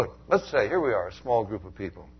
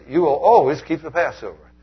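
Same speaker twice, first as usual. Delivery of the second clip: emphatic quote; 4 semitones higher, 10 dB louder than usual. Acted. Quoting God emphatically.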